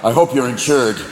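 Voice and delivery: lightly voiced menacing deer, opening low; vengeful buck. Buck confronts driver to avenge his brother, mild menace. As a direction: threaten coolly as a vengeful buck. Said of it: "five-point buck that jump out".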